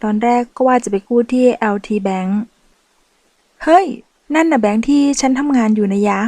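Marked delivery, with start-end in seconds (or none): 3.6-6.2 excited. Acted. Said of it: "ร้องออกมาด้วยน้ำเสียงตื่นเต้น".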